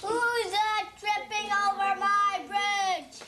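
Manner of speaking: a slowish, lightly voiced troll challenge; a kid's mild mock troll roar; child playing troll. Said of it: "would like to be the troll".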